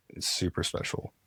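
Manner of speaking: a hushed, whispered end. Retold or imitated. Retelling the room's awe at the spirit, hushed whisper. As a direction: drop to an awed whisper. Awed quote about feeling the spirit.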